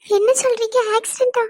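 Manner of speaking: shocked disbelief. Acted. Hears of a friend's accident.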